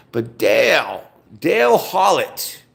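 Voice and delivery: loud, slow calling out by full name. Real, not acted. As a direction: call him out for everyone to hear.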